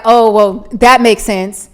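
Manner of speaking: sarcastic. Acted. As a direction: act out a sarcastic reply. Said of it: "it's how you're being sarcastic".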